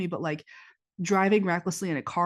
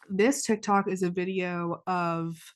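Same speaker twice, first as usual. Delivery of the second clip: blocked nose; slower than usual. Real, not acted. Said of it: "so snotty after crying".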